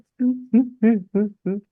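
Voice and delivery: mock heaving sobs, high-pitched; a playful imitation of hard sobbing; imitated sobbing. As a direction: act out the sheikh's sobbing. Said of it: "Nangis kayak yang bener-bener sesenggukan".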